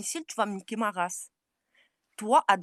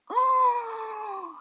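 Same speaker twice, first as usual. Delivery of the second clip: much higher sudden shout; 12 semitones higher than usual. Real, not acted. Shouting at a rival mid-argument, sudden high shout. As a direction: bark it out at her, startled. Outburst during feud.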